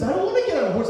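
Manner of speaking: high, loud mock protest; retold high-pitched objection; yelled refusal. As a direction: squawk back a stubborn refusal. Father's protest in acted argument.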